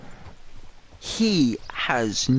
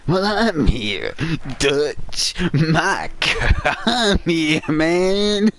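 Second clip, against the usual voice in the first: lightly voiced Mike, rising toward the end; 3 semitones higher, much slower than usual. Voicing Mike talking to Dutch.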